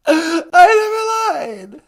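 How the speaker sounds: slow, hammed-up tearful denial; fake crying. The caller insists to the host he never lied, fake crying. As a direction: drag it out like you're about to sob.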